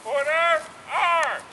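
drill command shout. Acted. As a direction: call it out like a drill sergeant.

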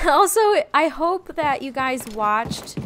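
laughing through the words. Real, not acted. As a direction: giggle while you say it. Laughing restart of sentence.

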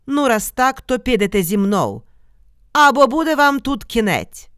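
dog-headed monster threatening the shepherds; monster's threat. A narrator's reading. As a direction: menace them like an ogre.

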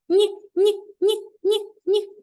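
high, loud teasing no no no; playful no-no. Pretend. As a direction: wag a finger at the wrong answer. Teacher playfully rejecting wrong answer. (грайливе «ні, ні, ні»)

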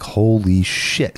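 drawn-out, stunned retold exclamation; slow, awed reaction; stunned disbelief. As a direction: stretch it out slowly in mild awe. Retelling sight of fire over hilltop.

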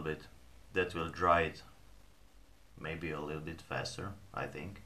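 talking around pipe stem; pipe in mouth. Real, not acted. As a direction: teeth clenched on pipe. Seen 0: Pipe stem held in mouth from 2.4s; hand-held before.

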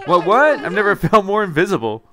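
laughing squeaky voice. Retold or imitated. Mimic then laughing line.

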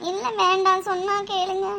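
small, weepy pleading; tearful. Acted. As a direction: plead softly through tears. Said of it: "சக்தி, ஏன் அழுகுற". (அழுகையுடன் மெதுவாகக் கெஞ்சி)

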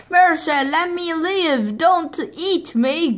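high, slow mock begging; mock pleading. Weak wolf begging the foxes, high mock pleading. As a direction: beg like a puny wolf.

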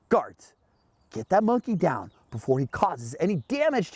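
mock-stern command; ordering. Museum director ordering guards after George, mildly stern command. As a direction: give a firm order, lightly acted. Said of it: "he ordered".

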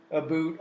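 "a boot" with a long oo vowel; Canadian "about". Shown as a demonstration. Quoting how comic-book Canadians talk, Canadian "a boot". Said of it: "with Canadians, you're making them say".

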